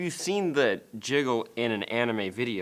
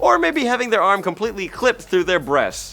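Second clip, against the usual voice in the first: quoted producer; 6 dB louder than usual. Retold or imitated. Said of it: "His quote".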